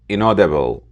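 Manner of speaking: "inaudible" stressed on its second syllable. Shown as a demonstration. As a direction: say "inaudible" with the weight on AU. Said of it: "The stress is on the second syllable".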